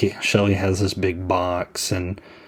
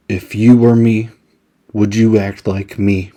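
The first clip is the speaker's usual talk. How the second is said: earnest nervous Shelly; 6 dB louder than usual. Retold or imitated. Shelly's earnest question to Andy.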